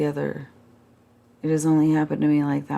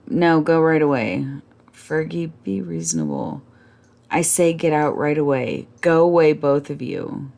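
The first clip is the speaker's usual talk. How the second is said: louder, harsh dismissal; much louder, shouting at the couple to go; ordering out; 4 dB louder than usual. Acted. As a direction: drive them out of the room. Fergie ordering them out.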